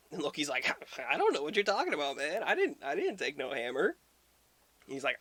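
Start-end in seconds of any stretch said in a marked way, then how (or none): 1.0-3.9 high, fast, fake-innocent denial; lightly voiced sly trickster brushing it off; innocent Loki. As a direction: play dumb, quick and high.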